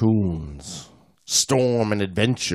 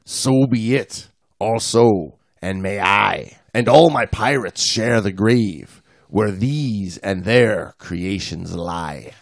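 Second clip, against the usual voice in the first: poem reading; 2 semitones lower, slower than usual. Acted. Reads a poem aloud.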